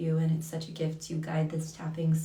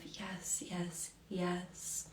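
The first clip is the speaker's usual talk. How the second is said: unvoiced soft yes; whispered yes; 12 dB quieter, much slower than usual. Real, not acted. Host affirms a viewer's dedication, whispering.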